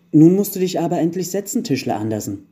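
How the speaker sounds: put-on high, loud child voices, dropping at the end; impatient children. A narrator's reading. Elf children urging the carpenter to sit, impatient. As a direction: hurry him along like an eager kid. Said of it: "sagten die Kinder".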